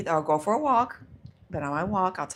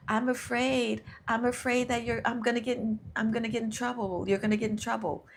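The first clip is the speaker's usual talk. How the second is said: lightly voiced frightened inner fear, pitched higher; fear's voice; 5 semitones higher than usual. Fear warning its owner of trouble, lightly voiced higher worry. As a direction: speak as a worried little fear, higher. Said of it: "it would be like".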